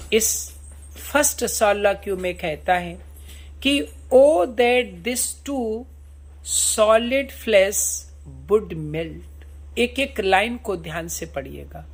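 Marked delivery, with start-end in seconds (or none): 4.1-9.3 slow, drawn-out reading of Shakespeare; slow recitation. Shown as a demonstration. Teacher reading Hamlet's soliloquy to students, slow solemn recitation. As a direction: recite each word slowly and solemnly.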